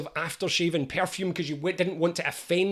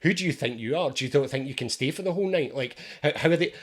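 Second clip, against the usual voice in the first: nagging inner voice; 3 semitones lower, faster than usual. Retold or imitated. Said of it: "this one goes".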